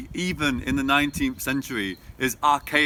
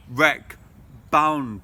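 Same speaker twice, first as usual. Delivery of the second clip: WRECK and BOUND each stressed, slowly; two stresses in a row; 5 dB louder than usual. Shown as a demonstration. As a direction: land equal weight on wreck, then bound. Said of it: "two stresses in a row".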